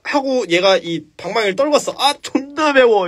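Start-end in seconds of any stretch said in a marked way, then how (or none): 2.0-3.1 troll in pain. Retold or imitated.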